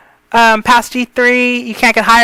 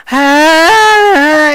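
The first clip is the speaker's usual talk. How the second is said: sliding higher-pitched "aah"; long "aah" that wavers up and back down; uneven breathy "ah"; 4 semitones higher, 4 dB louder than usual. Shown as a demonstration. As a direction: let the pitch drift up on a long exhaled "aah". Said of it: "Because if you go".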